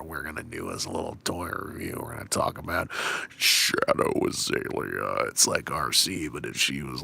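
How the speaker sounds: deadpan drained intro, dragging; tired voice. Shown as a demonstration. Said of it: "that tired voice".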